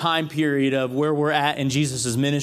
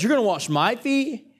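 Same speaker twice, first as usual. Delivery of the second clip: incredulous Peter; 6 semitones higher than usual. Acted. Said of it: "So Peter goes".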